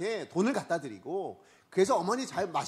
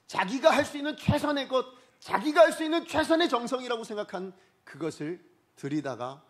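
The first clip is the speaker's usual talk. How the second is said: high, loud pulpit delivery; emphatic preaching; 7 semitones higher, 6 dB louder than usual. Real, not acted. Preacher telling the congregation about David's best offering, emphatic preaching. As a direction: drive the repeated phrase home loudly.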